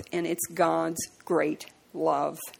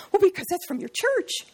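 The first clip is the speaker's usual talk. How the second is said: nasty retort; 11 semitones higher than usual. Retold or imitated. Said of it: "the people who get really nasty".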